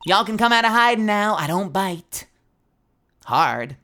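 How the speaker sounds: lightly Southern, teasing; amateur Southern twang; attempted Southern accent. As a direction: coax the shy one out, Southern style. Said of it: "I don't do accents, but I try".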